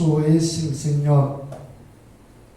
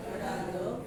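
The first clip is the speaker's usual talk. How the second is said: breathy whisper, much softer; 16 dB quieter than usual. Acted. Preacher whispers to the congregation about the weeping. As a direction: let the word fall to a hush.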